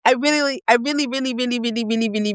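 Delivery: high, giggly run sliding down; hammed-up eager repetition, starting high; mock eagerness. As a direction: gush it like a playful confession. Acts out eager confession to friend.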